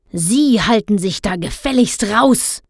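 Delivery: gruff, rude snap; father snarling at the ice cream seller; snapping. Acted. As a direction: put the seller in his place. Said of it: "raunzte Herr Blauberg".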